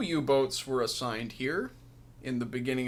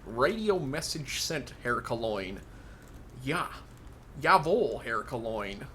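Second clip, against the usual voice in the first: hammed-up bad German accent; mock German accent; slower than usual. Player mocking the game's radio man, exaggerated German accent. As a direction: parody a German radio operator, words drawn out. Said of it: "That's the worst German accent ever".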